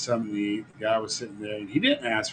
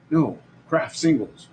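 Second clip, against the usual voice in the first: mumbling stranger; 4 semitones higher, 4 dB louder, slower than usual. Retold or imitated. Voicing the cheese guy.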